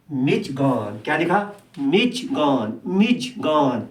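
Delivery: مچگان with a light zh, slow on the middle take; teacher repeating مچگان for the class; soft zh in مچگان. Shown as a demonstration. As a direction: say مچگان gently, zh not a hard j. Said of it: "جے سے تھوڑی بہت ہلکی آوازیں ہیں".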